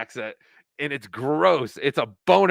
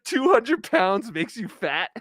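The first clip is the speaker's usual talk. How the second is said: high, slow mock jeer; Ray; 7 semitones higher than usual. Host mimicking a comedian mocking his rival's weight, high jeering. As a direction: stretch out the insult in a high voice. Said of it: "Ray was going".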